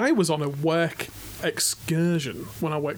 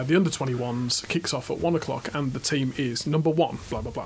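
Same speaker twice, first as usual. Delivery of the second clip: put-on Yorkshire accent. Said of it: "in my Yorkshire accent".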